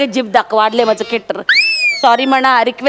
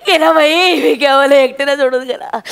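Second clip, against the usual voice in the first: mock lament. Mock mourning for Vikya.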